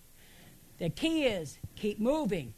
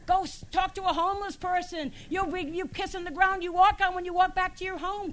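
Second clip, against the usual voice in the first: high, insistent sermon exhortation; urgent preaching; 8 semitones higher, 4 dB louder than usual. Real, not acted. Pastor pushing listeners to go see others worse off, urgent preaching. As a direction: urge them on in a raised pitch.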